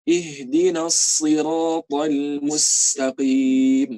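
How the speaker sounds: slow recited Ihdinas siratal mustaqim; Quran recitation. Shown as a demonstration. Teacher reciting the verse as a model. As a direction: chant it slowly and evenly. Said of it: "Kayak gitu".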